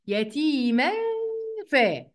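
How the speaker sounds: "يتيما" ending in a held nasal hum into f; ikhfa with ghunna. Shown as a demonstration. Teacher isolating the rule, "يتيما" with hummed hidden nun. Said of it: "هنا إخفاء".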